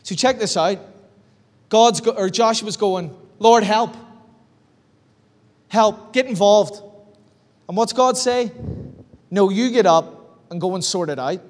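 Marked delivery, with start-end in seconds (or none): 3.4-6.8 pleading cry. Retold or imitated. Joshua begging God for help. 9.3-11.4 Northern Irish. Retold or imitated. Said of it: "very Northern Irish term".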